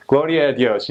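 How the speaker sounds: church exclamation. Retold or imitated. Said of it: "Another thirty seconds".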